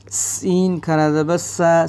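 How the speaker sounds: hissing, whistle-like स in सीन and सा; whistled s. Shown as a demonstration. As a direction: let the स of सीन whistle through. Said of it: "सीटी से आवाज़ आएगी". (सीन का स सीटी जैसी आवाज़ से)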